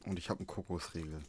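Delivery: talking while chewing; words round a bite of coconut bar; mouth full. Real, not acted. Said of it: "ich esse gerade". (mit vollem Mund)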